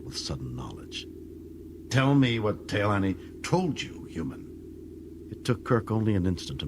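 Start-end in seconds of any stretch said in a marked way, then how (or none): 1.9-4.5 slow, drawn-out menace; slow Klingon prisoner taunting his captor; menacing Klingon. Acted. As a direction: lean in and threaten him slowly.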